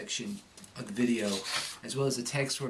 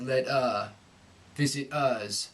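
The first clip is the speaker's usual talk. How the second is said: overdone r-less letter, visitors; too much Cockney; slower than usual. Shown as a demonstration. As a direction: overdo the dropped r. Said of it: "so you don't say".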